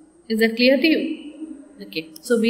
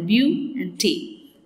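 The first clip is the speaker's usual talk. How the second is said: slow syllable split; 3 semitones lower, 3 dB quieter, slower than usual. Shown as a demonstration. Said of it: "Two are there".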